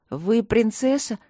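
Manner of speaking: can't hide the surprise; surprised. Acted. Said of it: "не сумев скрыть удивление".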